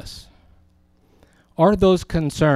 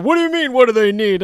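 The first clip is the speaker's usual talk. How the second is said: high startled echo of the question, louder; startled disbelief; 11 semitones higher, 6 dB louder, faster than usual. Retold or imitated. Pastor taken aback by a caller's question, startled. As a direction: jump up in pitch, caught off guard. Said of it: "And I said".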